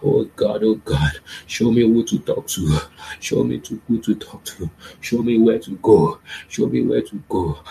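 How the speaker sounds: crying out to God loudly; fervent loud prayer. Acted. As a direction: plead at full voice.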